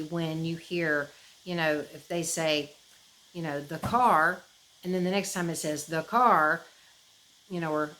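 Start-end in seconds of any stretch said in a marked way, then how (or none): 3.6-4.4 mock AI voice. Shown as a demonstration. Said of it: "no change in the way that it's being spoken". 5.9-6.6 mock AI voice. Shown as a demonstration. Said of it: "no change in the way that it's being spoken".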